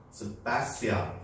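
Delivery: 스파시알 said slowly, spelled out; slow demo pronunciation. Shown as a demonstration. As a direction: draw out 스파시알 syllable by syllable. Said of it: "teacher demonstrates pronunciation".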